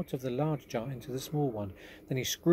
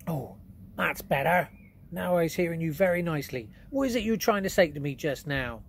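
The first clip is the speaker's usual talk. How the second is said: relieved giant; 5 semitones higher, 5 dB louder than usual. Acted. BFG relieved.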